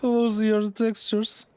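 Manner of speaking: high, slow, laughing question. Real, not acted. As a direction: ask it through giggles. Laughing at glitched graphics.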